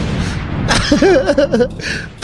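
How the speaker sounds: short burst of laughter; laughing. Real, not acted. Streamer laughing at viewers' insults, amused laugh.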